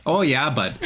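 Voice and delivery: put-on Canadian accent with a laugh; mock a chummy Canadian; stereotyped Canadian. Host adds to friend's Canadian impression, mock Canadian accent. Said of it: "Gotta throw in there a bud".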